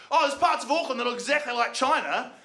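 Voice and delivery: high put-on worried voice; high mock alarm; mock anxious local. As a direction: gasp it like a nervous suburbanite. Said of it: "people are like".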